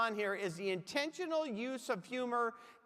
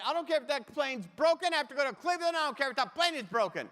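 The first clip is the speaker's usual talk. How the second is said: irate passenger; 2 semitones higher, 4 dB louder, faster than usual. Retold or imitated. Acts out an irate fellow passenger.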